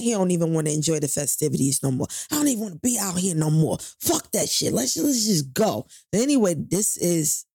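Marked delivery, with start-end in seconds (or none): 2.3-5.9 angry. Retold or imitated. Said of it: "He's so mad".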